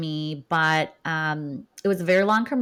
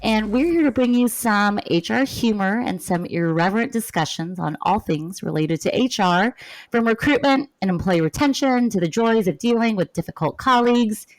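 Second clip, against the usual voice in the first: stiff scripted announcer read; formal radio host. Acted. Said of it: "Do I sound like a robot?".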